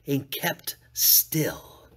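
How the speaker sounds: breathy hushed whisper. A narrator's reading. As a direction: drop to a whisper. Narrator whispers in suspense.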